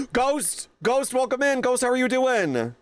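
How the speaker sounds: high, thrilled welcome after a gasp; excited greeting. Real, not acted. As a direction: squeal hello to a friend who just arrived. Greeting a viewer who just arrived.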